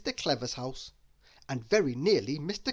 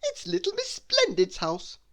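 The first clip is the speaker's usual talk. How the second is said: higher, whispered aside; Mister Tickle hushing to the dragon; conspiratorial whisper; 3 dB louder than usual. Acted.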